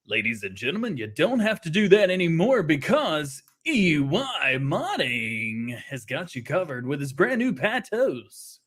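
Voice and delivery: a light hint of a sales pitch; used car salesman. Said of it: "Is that your used car salesman voice?".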